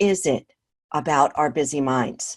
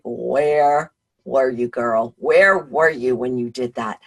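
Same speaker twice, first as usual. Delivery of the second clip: slightly drawn-out, lower-pitched mock reproach; mock self-scolding; 4 semitones lower, 3 dB louder, slower than usual. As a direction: playfully call yourself out. Mock-scolding herself for sloppy mistakes.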